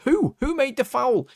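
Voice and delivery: high-pitched mock outrage at the ref; mock protesting shout. Dan Ballard protesting to the referee, imitated shout. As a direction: protest like an indignant, squawking player. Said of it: "shout at the referee".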